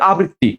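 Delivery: আবৃত্তি as "a-britti", one b only; correct pronunciation. Shown as a demonstration. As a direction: say আবৃত্তি briskly with an open "a" first. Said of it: "উচ্চারণ কি হবে?".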